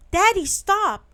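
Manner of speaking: high loud urgent call. Acted. Boy begs his father not to shoot, high loud call. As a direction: stop him with a loud high plea.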